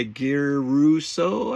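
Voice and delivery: slow Italian-style accent on "Guy Russo" with a rolled r; mock Italian accent. Shown as a demonstration. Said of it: "Why do I have to say it with an accent?".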